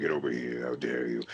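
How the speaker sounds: very low, monstrous, guttural orc growl. Voice actor demonstrates a kind of evil voice he enjoys, in a guttural orc voice. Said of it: "that kind of monstrous one, like an orc type thing".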